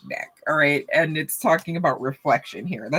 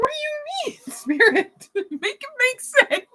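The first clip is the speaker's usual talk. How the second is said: high-pitched squeal through laughter; helpless, laughing mock complaint; laughing protest. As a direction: plead incredulously while cracking up. Mock complaint to Spirit while laughing.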